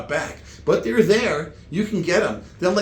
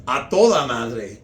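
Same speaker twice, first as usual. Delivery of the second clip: Mexican Spanish phrase; 4 semitones lower, 4 dB louder than usual. Shown as a demonstration. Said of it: "In Mexican, if something is good".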